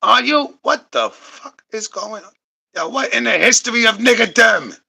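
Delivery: can't believe what he heard; stunned then shouting; shocked. Real, not acted. Shocked outburst at the news.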